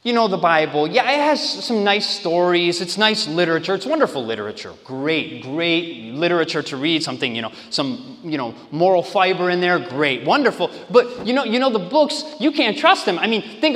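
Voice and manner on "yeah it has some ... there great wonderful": dismissive skeptic. Retold or imitated. Skeptic brushing off the Bible as literature, dismissively. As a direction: shrug it off as mere literature. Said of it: "arguments like this one".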